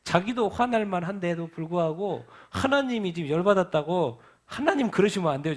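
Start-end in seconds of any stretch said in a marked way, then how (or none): 4.5-5.5 Moses pleading. Retold or imitated. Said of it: "지금 이러고 있다니까요".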